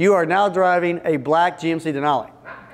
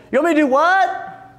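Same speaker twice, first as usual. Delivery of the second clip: higher, incredulous "what?"; baffled employee; 9 semitones higher than usual. Acted. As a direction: play the confused team member who doesn't get it. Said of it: "the team member says".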